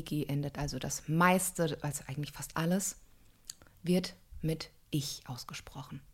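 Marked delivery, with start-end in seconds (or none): 3.8-6.0 whisper. Real, not acted. Coach stressing a rule.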